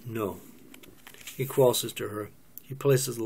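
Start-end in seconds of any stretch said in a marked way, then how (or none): 0.0-0.4 softly sincere no. Acted. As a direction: say it softly and mean it. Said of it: "Joyce says, sincere".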